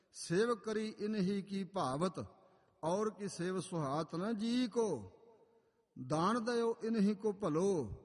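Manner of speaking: slow, slightly lifted verse recital; measured, drawn-out Gurbani recitation; scripture recitation. Acted. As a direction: proclaim the holy verse, stretching each phrase.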